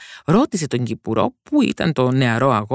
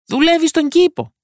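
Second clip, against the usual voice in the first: lively gardener; 6 dB louder than usual. A narrator's reading. Gardener answers the princess.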